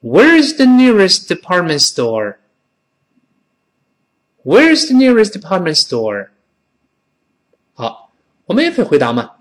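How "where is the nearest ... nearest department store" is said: careful linked reading, 'nearest' with curled R; model question. Shown as a demonstration. Teacher leads class through the question, model reading. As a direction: read clearly for repeating, department with dropped Ts. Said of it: "慢慢跟老师读一遍".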